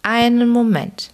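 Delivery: put-on high, wailing call of an old man; old man calls from the doorway, whining. A narrator's reading. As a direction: cry out plaintively to stop them. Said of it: "rief eine jammernde Stimme".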